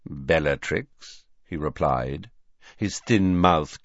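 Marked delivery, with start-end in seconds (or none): 0.1-1.2 lower, slow sneering greeting; slow mocking address; slow low drawl. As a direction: drag the name out with contempt. Snape's drawled reply.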